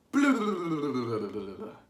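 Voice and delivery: rumbling tummy noise; tummy grumble. Shown as a demonstration. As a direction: grumble like a hungry belly. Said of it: "grumble with Foxy Loxy's tummy".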